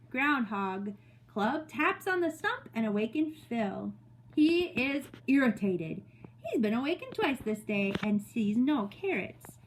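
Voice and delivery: measured, expressive story reading; read-aloud to children. Acted. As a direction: read it to a class of young children. Reads story to second graders.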